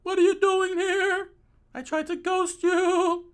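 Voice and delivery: high, loud indignant protest; indignant outburst. Acted. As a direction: protest loudly in a high, strained pitch. Prisoner confronts unwanted visitors.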